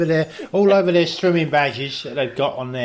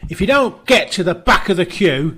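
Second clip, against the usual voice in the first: mock angry attendant; 3 semitones higher, 5 dB louder than usual. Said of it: "the guy got very angry".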